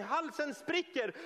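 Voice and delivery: ordinary delivery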